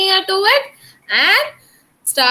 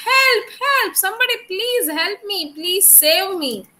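high, pleading cry for help; tiny marching ant; 5 semitones higher than usual. Acted. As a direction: beg to be saved, voice up high. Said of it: "it started crying like".

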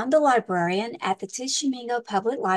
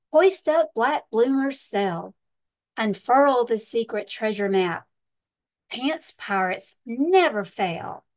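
captain calling orders; slower than usual. Acted. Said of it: "the captain cries".

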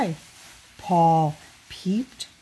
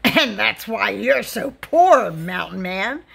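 loud taunt in a put-on voice; laughing jeer; 4 dB louder than usual. A narrator's reading. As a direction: jeer at the mountain man, falling away at the end. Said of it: "laughed the people in the cafe".

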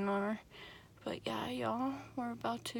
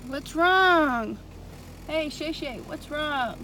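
soothing; 5 semitones higher, 3 dB louder, much slower than usual. Real, not acted. Comforting scared dog.

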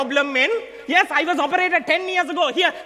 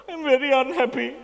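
laughing; 2 semitones lower than usual. Acted. Laughing fake self-pity.

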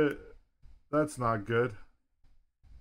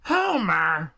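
shouted call; 4 semitones higher, 7 dB louder than usual. Acted. Loud shouted name call.

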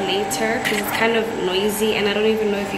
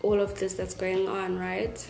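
speaking around fresh braces; talking with new braces; 9 dB quieter than usual. Real, not acted. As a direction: mouth adjusting to braces. Seen 2: Braces glint on teeth while she talks; clearly shown at +13.1.

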